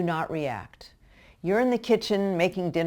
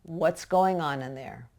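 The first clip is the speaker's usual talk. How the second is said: very calm question. Shown as a demonstration. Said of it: "all you're gonna say very calmly".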